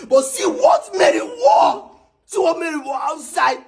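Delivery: angry shout. Acted. Husband shouting over wife's outfit.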